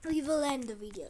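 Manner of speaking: firm emphasis on "will"; stress on WILL. Real, not acted. Youtuber settling on ending the video, stress on "will". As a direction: land on "will", then let the rest fall. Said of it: "Why am I saying we'll probably?".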